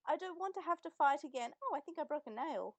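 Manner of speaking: mock a spoiled girl fussing over a nail; mocking prissy girl. Host mocking the dub's Mimi as a prissy girl. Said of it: "Mumu says".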